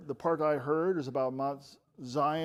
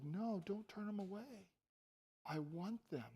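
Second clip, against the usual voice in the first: much softer, hushed retelling; gentle welcome; 4 semitones higher, 12 dB quieter than usual. Retold or imitated. Preacher retelling Jesus welcoming the children, gently hushed. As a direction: drop right down and tenderly voice Jesus.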